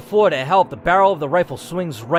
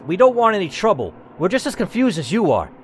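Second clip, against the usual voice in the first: pleading Dennis; 4 semitones higher than usual. Acted. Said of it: "Dennis says".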